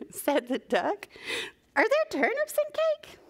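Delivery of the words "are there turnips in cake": puzzled question. Acted. Storybook aside, puzzled question.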